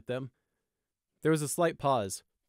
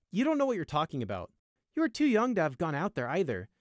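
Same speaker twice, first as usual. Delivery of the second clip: disapproving guard; 7 semitones higher, 4 dB louder than usual. A narrator's reading.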